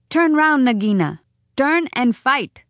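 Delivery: high, ringing challenge; crying out. A narrator's reading. Rikki Tikki challenging Nagina to fight, crying out. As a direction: call it out high as a dare. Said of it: "Rikki Tikki came up and cried".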